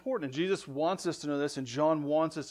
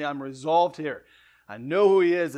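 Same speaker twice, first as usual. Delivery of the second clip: Paul's firm resolve, with a louder finish; emphatic conviction; 6 dB louder than usual. Retold or imitated. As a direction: declare it with an exclamation point. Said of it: "Just as Paul tells Timothy".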